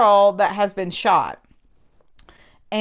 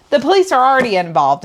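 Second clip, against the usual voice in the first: rushed mock quote; 4 semitones higher, 5 dB louder, faster than usual. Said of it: "she immediately goes".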